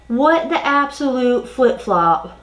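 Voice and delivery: slow, drawn-out exasperation; retold exasperation. Woman retelling her anger at boss, slow exasperation. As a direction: spell out the mock curse slowly. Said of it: "I was so mad because I'm like".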